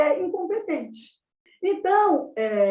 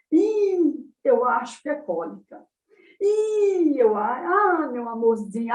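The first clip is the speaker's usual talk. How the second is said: put-on mother's baby talk. Mother guesses colic as her baby cries, cooing baby talk. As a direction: imitate a mother fussing over her crying baby. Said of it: "A prosódia da mãe".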